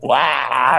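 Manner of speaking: long mock "waah" in someone's face; imitated fan "waah". Actor imitating a fan on top of him, long waah. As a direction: imitate an overexcited fan's waah. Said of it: "they're just like".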